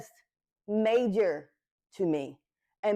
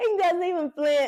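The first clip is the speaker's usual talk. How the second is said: high, choked-up voice on the verge of tears; 8 semitones higher, 3 dB louder than usual. Speaker describes someone who never flinches at their struggle, choking up. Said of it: "oh Lord, I'm going to cry".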